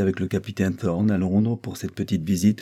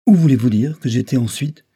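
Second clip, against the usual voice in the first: higher, louder indignant question; indignant demand; 5 semitones higher, 7 dB louder than usual. A narrator's reading. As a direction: demand it hotly, hitting the first words. Acted courtroom quarrel, indignant witness. (question indignée, plus haute et forte)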